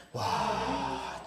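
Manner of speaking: low, breathy drawn-out wow; hushed amazement. Real, not acted. Preacher reacting to a suffering man, hushed amazement. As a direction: let it out as a long, voiceless breath of awe.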